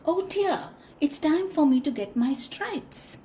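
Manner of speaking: startled little zebra remembering; lightly voiced zebra. Zebra waking, realizes time.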